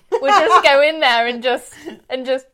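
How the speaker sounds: muffled behind a hand; hand over mouth. Real, not acted. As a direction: talk through a covered mouth. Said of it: "I'm covering my mouth like they can see me".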